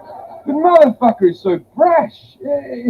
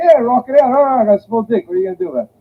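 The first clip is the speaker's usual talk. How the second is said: raised, cocky mock-male boast; brash bravado; 4 semitones higher, faster than usual. Men reacting to small dick jokes, brash bravado.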